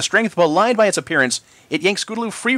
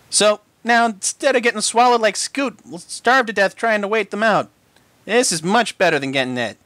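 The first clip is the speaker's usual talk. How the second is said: gloomy filly voice; 5 semitones higher than usual. Acted. Sweetie Belle gloomy.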